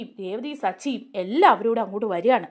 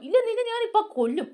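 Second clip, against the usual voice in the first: retold death threat; 9 semitones higher than usual. Sarath lunging to strangle Shruthi.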